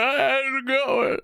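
high, slow sing-song how's it going; drawn-out chirpy hello, way up high; mock cheery greeting. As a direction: play the oblivious smiling greeter. Board members greeting sobbing coworker.

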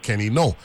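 Kenny No, surname rhyming with go; pronunciation demo. Retold or imitated. Host quotes racing secretary's name, No with a long o. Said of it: "he used to pronounce his".

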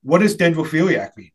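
"dendrophiliac" with its R softened to W; imitated speech impediment. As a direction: mimic "dendwophiliac", R turned to W. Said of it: "he talked like this".

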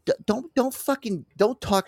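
high, strained outburst; mock angry retort. To the rude coach, a high strained mock rant. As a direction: start telling him off, pitch shooting up. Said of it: "I'm like, Listen".

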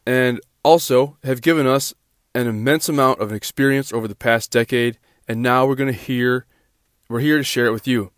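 nasal voice from a stuffy nose. Real, not acted. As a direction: talk through a blocked nose. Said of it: "I have a stuffy nose".

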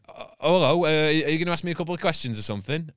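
high, bright put-on toucan greeting; chirpy toucan voice. Comedian retelling his toucan act to judges, in a high chirpy put-on voice. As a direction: pitch it up like a cheeky bird puppet.

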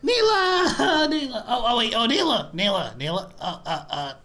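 tipsy rambling barkeep; drunk slur. Acted. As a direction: fumble words like a drunk. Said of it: "I'm so drunk right now".

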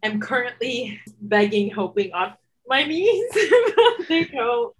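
hiccuping while talking; words broken by hiccups. Real, not acted. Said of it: "Sorry, I can't stop my hiccups".

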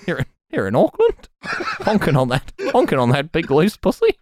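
bad mock Kiwi accent; New Zealand accent. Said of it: "not a very good New Zealand accent".

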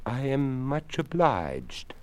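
a courteous creaky skeleton, unhurried. Acted. Skeleton speaks.

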